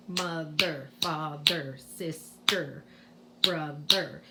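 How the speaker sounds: "mother, father, sister, brother" broken into two beats, each ending "er"; low, separated syllables in "mother, father, sister, brother"; syllabic ER demonstrated. Shown as a demonstration. Teacher demonstrates syllabic R, "mother, father, sister, brother" ending on clear "er". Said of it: "that's this here. Er".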